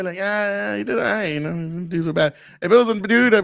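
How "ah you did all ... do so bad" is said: sugarcoating. Acted. Man coddling a woman who asked if she did it right, mock sugarcoating. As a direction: let them down easy, hammed up. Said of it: "sugarcoat everything".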